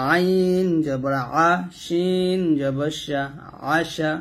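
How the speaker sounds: slow, drawn-out letter names, short syllables after; measured classroom spelling chant; spelling recitation. Shown as a demonstration. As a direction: stretch each letter name, then join the syllables.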